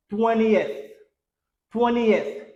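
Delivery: "twentieth" as "TWEN-ee-eth", falling; correct three-syllable twentieth. Shown as a demonstration. Teacher gives the right form, "twentieth" as "TWEN-ee-eth". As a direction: open the ending of "twentieth" into "ee-eth". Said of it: "Comment on dit vingtième en anglais?".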